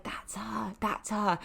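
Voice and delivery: hushed secret-spy tip-off; secretive. Retold or imitated. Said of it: "like I'm a secret spy".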